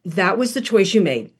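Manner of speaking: calm, no yelling. Retold or imitated. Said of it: "No yelling, no screaming, no condemning".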